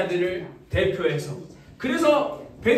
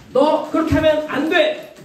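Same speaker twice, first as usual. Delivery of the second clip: firm, emphatic telling-off; scolding; 3 semitones higher, 4 dB louder than usual. Shown as a demonstration. Teacher demonstrating a rebuke to children, firmly scolding. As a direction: tell them off as a demonstration. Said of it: "이게 꾸짖는 거예요".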